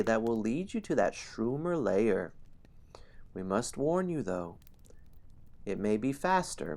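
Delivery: a hint of a gnome elder; lightly voiced elder warning kindly. Gnome elder warning the hero, lightly voiced. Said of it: "A gnome elder quiets the crowd and says".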